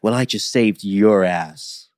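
slow, drawn-out corny comeback; mock the actress's line with slow seriousness; cringy, corny heroine. Imitating the heroine's comeback, cringy and corny. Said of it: "it's so cringy and corny".

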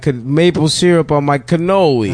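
put-on Italian-Canadian accent. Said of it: "the Italian part of Canada".

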